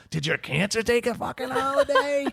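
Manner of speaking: high-pitched laughing yell at the room; mock yell. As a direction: yell it out, half laughing at yourself. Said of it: "yell at everybody".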